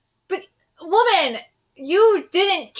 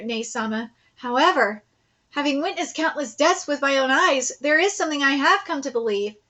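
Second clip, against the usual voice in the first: lightly voiced solemn general; 2 semitones lower than usual. General counsels grieving Nay Sama, lightly voiced and solemn. Reads the general's dialogue aloud.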